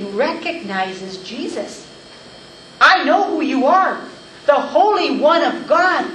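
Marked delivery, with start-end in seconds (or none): 2.8-6.0 loud, raised recognition cry; demon's cry repeated. Acted. Preacher repeating the demon's words to the congregation, loud cry. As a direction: call out the name as if cornered. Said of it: "You notice the demon".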